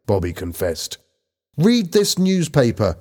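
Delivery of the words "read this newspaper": high, slightly louder call; urgent exclamation; shouting. A narrator's reading. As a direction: thrust the paper at them and shout. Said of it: "Lisa shouted".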